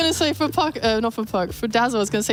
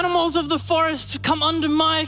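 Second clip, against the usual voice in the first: theatrical commanding voice; 3 semitones higher than usual. Acted. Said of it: "So theatrical".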